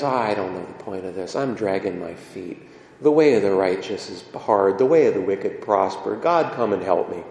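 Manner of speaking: low, weary, dragging prayer; sad psalm writer. Acted. Psalm writer to God, sadly dragging his feet. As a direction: sigh it out like a tired man asking God for help. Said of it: "and he gets sad".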